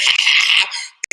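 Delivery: imitated laughter. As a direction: act out someone cackling on camera.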